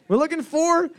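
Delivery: drawn-out high announcement; slow announcing call. Acted. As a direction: stretch it out like a quiz host. Host announcing answer, drawn out.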